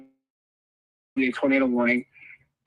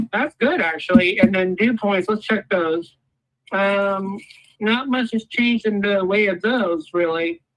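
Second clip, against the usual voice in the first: muffled; slower than usual. Real, not acted. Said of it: "I'm sorry if I sound a little muffled".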